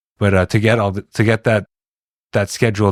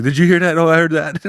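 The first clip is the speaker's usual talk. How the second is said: mock spooked whisper-talk; 9 semitones higher than usual.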